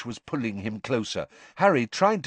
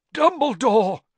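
a high, loud gasp of the name; 12 semitones higher, 7 dB louder than usual. Acted. Broken Crouch gasps for Dumbledore, high and loud. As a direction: gasp it out with the last of his strength. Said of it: "gasped Mister Crouch".

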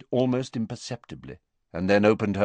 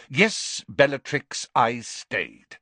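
impatient; 4 semitones higher, 5 dB louder, slower than usual. Acted. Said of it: "betraying a hint of impatience".

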